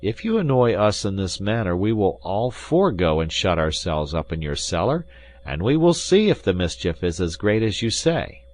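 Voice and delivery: lightly voiced threat to the host; mildly stern musketeer; D'Artagnan. D'Artagnan voiced, louder than narration.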